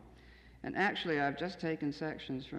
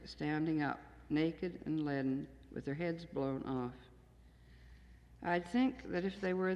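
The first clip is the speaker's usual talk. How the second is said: measured, deliberate poem reading; a poet reading her own work to an audience; poetry reading. Acted. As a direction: read each line as verse, letting the images land. Reads second poem aloud.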